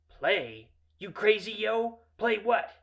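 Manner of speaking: brash disbelief; loud challenge. Retold or imitated. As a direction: fire back in a high, loud street voice. Bully answers, taken aback.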